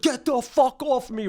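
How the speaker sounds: high, slow panicked cry; panicked yell. Retold or imitated. Classmate panicking as the phone cord wraps round, high and slow. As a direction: yelp it like he's being choked. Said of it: "He immediately goes into panic".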